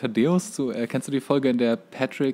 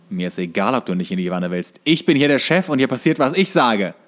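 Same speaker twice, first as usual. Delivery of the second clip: bossy SpongeBob. Retold or imitated. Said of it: "wie Gary verhindert".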